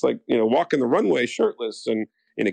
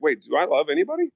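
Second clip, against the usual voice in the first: mock confused; 5 semitones higher than usual. Retelling his own confused thoughts.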